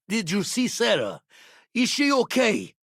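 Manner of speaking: high, urgent worried questions; worried for a friend's safety; alarmed concern. Acted. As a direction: ask anxiously, pitch climbing sharply. Urgent worry about a crewmate.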